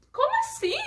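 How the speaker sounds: high, laughing "how come?"; amused, incredulous retort; baffled protest. Retold or imitated. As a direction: pitch it up in playful disbelief. Questioning God, acted.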